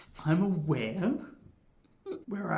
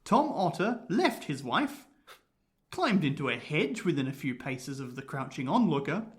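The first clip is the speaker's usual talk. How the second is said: measured, lilting storytelling read; story narration; 2 semitones lower than usual. A narrator's reading. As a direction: tell a spooky tale with relish. Reads the ghost story.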